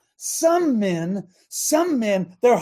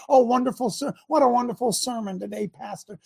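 mock churchgoer; 4 dB quieter than usual. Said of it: "shake your hand and say".

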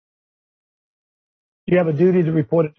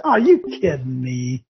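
exasperated fan; 6 semitones lower, slower than usual. Retold or imitated. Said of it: "You say".

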